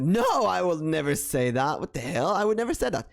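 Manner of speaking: high, indignant retold denial; playing the shocked accuser; mock denial. The person denying the rumor to her, high and indignant.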